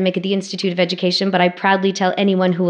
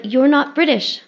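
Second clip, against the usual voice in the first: mock surprise; 7 semitones higher than usual. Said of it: "they're like".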